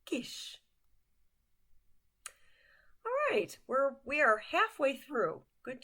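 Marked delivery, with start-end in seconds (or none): 0.0-0.6 Kis whispered, voiceless and soft; a soft unvoiced Kis; whispered word. Shown as a demonstration. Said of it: "Say it with me".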